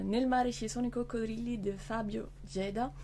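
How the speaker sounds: title read with a light Italian accent; a touch of Italian accent on the book title. Shown as a demonstration. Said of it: "Du coup, je prends l'accent".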